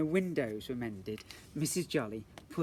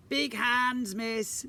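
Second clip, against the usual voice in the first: put-on high, loud child voice; cheeky child; 9 semitones higher, 7 dB louder, much slower than usual. Jennifer cheekily answers the teacher, high and loud.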